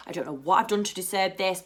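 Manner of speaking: hushed, grateful mock prayer; murmured prayer. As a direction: pray softly under your breath. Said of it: "I'd literally say a prayer".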